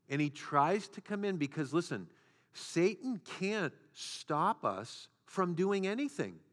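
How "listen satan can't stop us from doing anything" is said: ordinary talk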